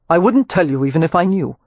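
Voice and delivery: a hint of a smooth male voice; lightly voiced Rowan. Rowan greeting Amelia, lightly voiced courteous man.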